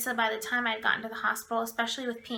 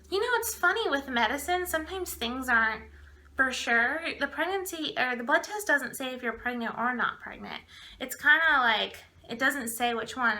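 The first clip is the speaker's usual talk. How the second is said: mildly hammed-up dim explanation; mock stupid. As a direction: imitate the doctor, sounding more stupid. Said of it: "more stupid".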